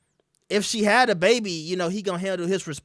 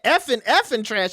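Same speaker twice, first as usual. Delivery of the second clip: "Effing, effing trash" with both effings leaned on; corrected quote pressing on effing; insisting on effing; 3 semitones higher than usual. Retold or imitated. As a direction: hit effing twice. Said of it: "No, she said".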